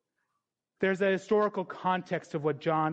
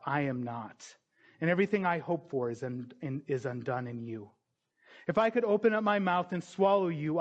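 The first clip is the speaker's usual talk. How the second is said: menacing dragon; 2 semitones lower than usual. Pretend. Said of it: "Imagine it would be something like this".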